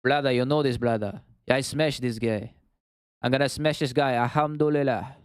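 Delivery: put-on Russian fighter accent. Streamer showing viewers his best Russian accent, mock Russian. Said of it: "Best Russian accent".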